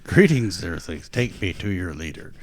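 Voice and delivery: a hammed-up space invader demanding your leader; booming arrogant alien overlord. Mock alien greeting, take me to leader.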